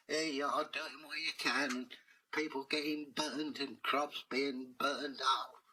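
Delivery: sorry, it's been a long day; weary apologetic master. Acted.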